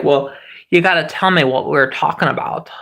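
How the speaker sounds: a strange made-up character voice; odd put-on voice. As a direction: put on a goofy voice to make the point. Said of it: "I don't know what that voice is".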